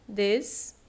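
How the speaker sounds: "des-lum" as two syllables with a long pause between. Shown as a demonstration. Teacher showing how the word divides, "des-lum" said as separate syllables. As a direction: set "des" and "lum" well apart. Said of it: "Por isso que vai ficar".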